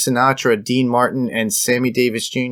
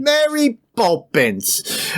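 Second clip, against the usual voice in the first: very high, drawn-out mocking cry; hammed-up, slow, high-pitched mockery; mock Mary Poppins call; 11 semitones higher, much slower than usual. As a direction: stretch it out in a silly high voice. Mocking Van Dyke's infamous film accent.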